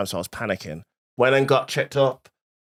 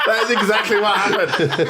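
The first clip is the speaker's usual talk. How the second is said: talking through helpless laughter, higher pitched; real laughter; 7 semitones higher than usual. Real, not acted. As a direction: laugh hard while getting the words out. Cracking up at own story.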